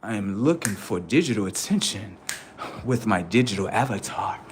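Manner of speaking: low, soft robotic monotone. Pretend. Comedian voicing a robot seeking attention, low soft drone. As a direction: drone it like a chatbot. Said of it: "robotic settings".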